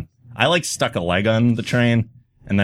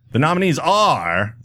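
slow, higher awards announcer; 4 semitones higher, slower than usual. Shown as a demonstration. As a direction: build it up like an awards host. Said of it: "my announcer voice".

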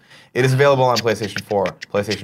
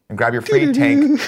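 hyped-up ad read; 4 dB louder than usual. Acted. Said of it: "All right, stop".

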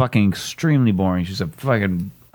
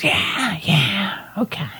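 higher, limp imitation of a listless woman; sad date; 9 semitones higher, slower than usual. Comic mimicking her replies to anything he told her, sad. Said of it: "the next girl was just sad".

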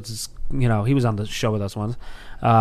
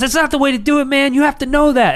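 mock sensei lecture; 12 semitones higher, 3 dB louder than usual. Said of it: "He goes".

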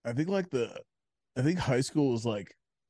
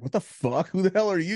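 raised, higher voice, indignant; retold yelling; 8 semitones higher, 4 dB louder than usual. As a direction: re-enact yelling back in an argument. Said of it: "yelling at each other".

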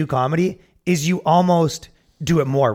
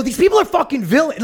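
mock mad; 9 semitones higher than usual. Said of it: "you'd act really mad".

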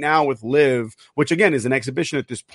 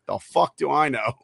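a hint of a northern British accent, softer; 5 dB quieter than usual. Retelling the clueless caddy's answer, northern British accent. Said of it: "he said it in his awesome northern fucking Britain accent".

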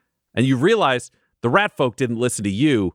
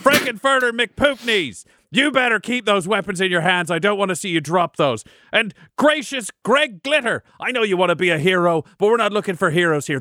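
a lightly voiced commander giving orders; Marith rallying troops; 6 semitones higher than usual. Marith orders the werefolk to fight defensively, lightly voiced. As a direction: rouse the troops, firm and brisk.

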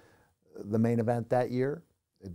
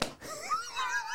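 high wordless strained yell; cartoonish fury shout; 6 dB quieter than usual. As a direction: let rip a high strangled roar. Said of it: "For those of you listening, I am doing the classic".

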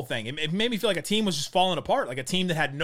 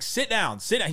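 higher, insistent coach command, said twice; repeated coach order; 5 semitones higher than usual. Retold or imitated. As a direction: keep ordering him to sit like a fed-up coach. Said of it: "It's like".

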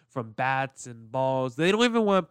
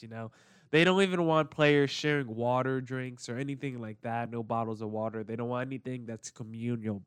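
usual speaking voice

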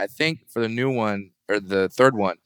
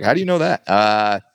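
1 mock woman's voice. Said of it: "she's like".

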